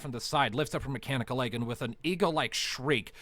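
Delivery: vivid combat narration; game master narration. A narrator's reading. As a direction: paint the fight for the players.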